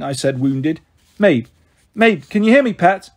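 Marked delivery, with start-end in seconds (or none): 1.2-3.1 Mum calling out high and loud across the churchyard. A narrator's reading. Mum calls Mabe from beside the church, loud and high. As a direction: call to her daughter from a distance. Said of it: "Mum calling me from the side".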